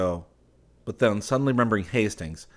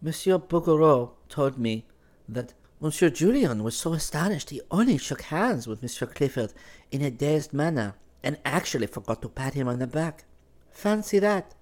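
merriment; 7 semitones higher than usual. Acted. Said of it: "she continued with much merriment".

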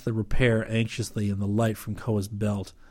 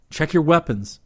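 raised voice of command; ordering; 6 semitones higher, 4 dB louder than usual. A narrator's reading. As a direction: give the men a firm order. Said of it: "he ordered".

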